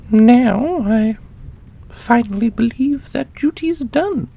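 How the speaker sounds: custodian character voice. Acted. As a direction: play the custodian with a high, lofty, amused tone.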